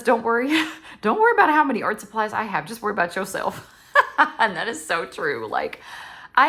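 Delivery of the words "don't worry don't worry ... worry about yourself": laughing read. Real, not acted. Reads a funny quote aloud.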